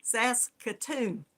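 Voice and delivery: Saskatoon said slowly and evenly, three clean syllables; settled pronunciation. Shown as a demonstration. Host making a final attempt at the city name, slow and sure. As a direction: land it slowly and confidently. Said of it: "I think that's close enough".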